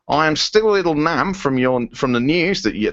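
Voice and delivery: lightly put-on Australian accent; comic stab at an Australian voice. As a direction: attempt a silly Aussie accent. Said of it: "to do another stupid accent".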